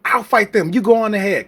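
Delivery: lightly acted knight urging the hero onward; urgent volunteering knight. Knight telling the hero to go on, lightly acted urgency. Acting out a self-sacrificing knight.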